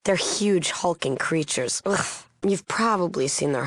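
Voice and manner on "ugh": short groan of revulsion; throaty noise of disgust; disgusted "ugh". Acted. Disgust at hulking creatures.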